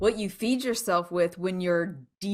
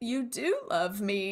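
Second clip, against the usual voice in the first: put-on shattered, crushed, heartbroken voice; 5 dB quieter than usual. Retelling a scene from a video: imitating someone broken. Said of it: "and she's just broken".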